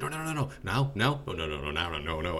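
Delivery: lightly voiced waiter waving off. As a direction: shoo them away gently. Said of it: "He's like".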